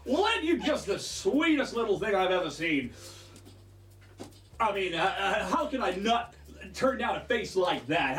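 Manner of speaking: lightly voiced doting bird merchant; charmed shopkeeper. Shopkeeper won over by a little customer, lightly doting sales voice. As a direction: gush a little, then settle into haggling.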